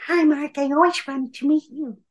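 put-on high-pitched, childlike sweet woman; little-girl character voice. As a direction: imitate a woman stuck in a small child's voice. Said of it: "she was just doing one of her voices".

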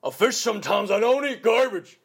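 put-on high, loud country recluse accent; a gruff country hermit, all twang; backwoods country accent. Showing off his forest-veteran character, country accent. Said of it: "people ... who have country accents".

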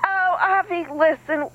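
excited pitch. Acted. I'll just play the tape.

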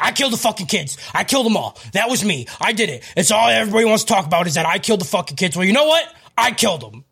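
mildly hammed-up ranting confession, rushed in the middle; crazed Alex Jones. Host retells Alex Jones's interview meltdown, mock crazed rant. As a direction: imitate a man losing it, lightly. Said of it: "Alex Jones just started going crazy".

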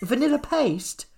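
high, slow disbelieving repeat; incredulous. Real, not acted. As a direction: drag out the disbelief. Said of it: "incredulous repeat".

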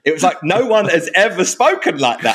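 high, swooping garage MC delivery. Pretend. Joking about the voice while still in it, garage MC. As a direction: keep up the hyped MC voice.

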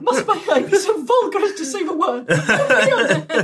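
hammed-up lady shocked at having to say it; loud indignant demand. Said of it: "your volume that intimidates him".

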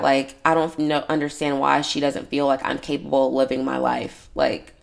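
hoarse, raspy throat; scratchy worn-out voice. Real, not acted. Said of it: "I feel like I sound raspy as hell".

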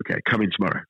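lightly imitated French waiter's accent; understated French accent, barely put on. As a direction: retell it with a hint of French accent. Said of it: "in a French accent".

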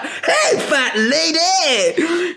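high, drawn-out cheerful call; cheery shout. Retold or imitated. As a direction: yell it out happily, laughing. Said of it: "he's gonna be like".

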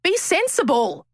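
lightly voiced monk, high and slow; a hint of a calm, amused old monk; mock-patient monk setting her straight. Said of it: "He goes".

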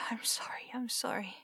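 soft loving whisper. Acted. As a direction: whisper sweetly to a pet. Whispering to cat.

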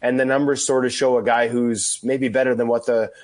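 hoarse from being sick; rough, under-the-weather voice; gravelly voice. Real, not acted. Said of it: "bearing with the gravelly voice here today".

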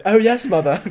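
high, loud mock-royal cartoon baby; Stewie Griffin. Guest shows off a classic line, cartoon baby voice. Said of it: "Stewie Griffin".

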